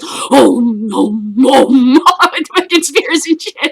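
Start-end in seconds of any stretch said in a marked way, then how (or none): 0.1-2.0 loud, a touch of crying panic; mock panicked. Vikings see Zulus with spears, loud mock panic. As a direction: whimper no in loud comic terror. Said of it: "And they're like".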